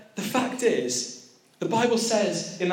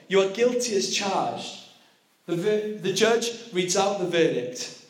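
dramatic sermon storytelling; 2 semitones higher than usual. Acted. Preacher to youth, acting out the courtroom with growing urgency. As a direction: tell it like a gripping story, building tension.

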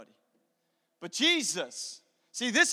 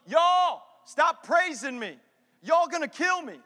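high, loud yell at a crowd; shouted protest; 6 semitones higher, 8 dB louder, slower than usual. Acted. Preacher as Jesus yelling at the town, shouted protest. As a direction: holler it out in exasperated protest. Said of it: "See, if I'm Jesus".

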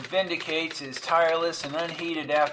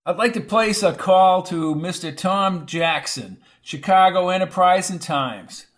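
hurried request; 4 semitones higher, 6 dB louder than usual. Acted. Reporter rushing call to operator.

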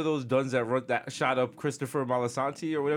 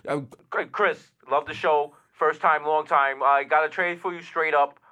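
louder, slow sports-radio caller; radio call-in fan; 4 dB louder than usual. Acted. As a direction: pitch a trade like an eager caller.

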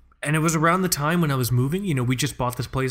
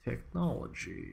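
slow, soft fake Russian accent; 12 dB quieter, slower than usual. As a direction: draw it out in a put-on Russian accent. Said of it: "I have to stop doing a fake Russian accent".

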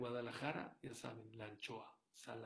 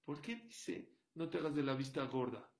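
emphatic demo; 3 semitones higher, 9 dB louder than usual. Shown as a demonstration. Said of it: "Le dije a mis hijos".

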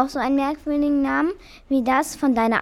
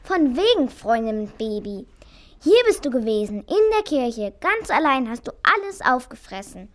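dawning realisation turning into indignation; indignant accusation. Acted. Mouse accusing the cat of eating everything, indignant.

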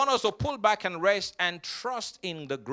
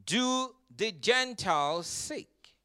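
slow quote; 5 dB quieter, slower than usual. Shown as a demonstration. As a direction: stretch it out slowly, seek fading away. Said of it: "He says".

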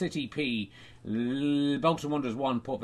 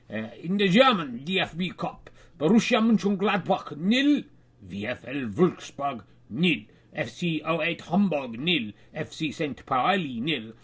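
put-on German accent; 3 dB louder than usual. Reading the German cup scores.

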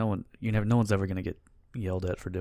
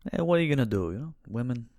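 lightly voiced old-school New York uncle; New York guy; 2 semitones higher, faster than usual. Host as old-school men's rights uncle, New York guy voice. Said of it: "like, New York guy".

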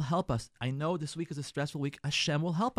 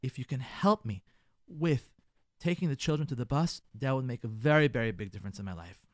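gentle request; 5 semitones lower than usual. Shown as a demonstration. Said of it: "But tell him".

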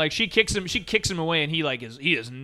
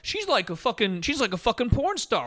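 mock dudes talking; 6 semitones higher than usual. Retelling guys in porn scene.

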